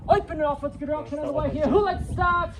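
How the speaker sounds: brisk auction call, rising at each bid; auctioneer calling bids. Real, not acted.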